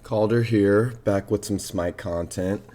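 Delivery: hoarse voice from a cold; under the weather, a little rough; sick voice. Real, not acted. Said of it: "excuse my voice, I'm a little under the weather".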